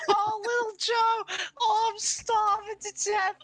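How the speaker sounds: hammed-up dying little guy; mock dying lament. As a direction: wail it like a hammy death. Little Joe dying dramatically.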